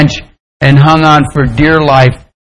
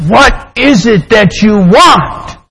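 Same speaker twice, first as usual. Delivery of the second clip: slow, higher, weighty voice from on high; authoritative voice; 4 semitones higher, slower than usual. Acted. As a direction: lightly play a commanding heavenly voice. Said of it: "an authoritative voice came down and said".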